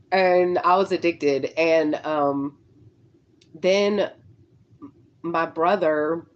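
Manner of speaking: talking while chewing gum; words round a wad of gum. Real, not acted. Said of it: "I shouldn't have gum in my mouth while I'm talking".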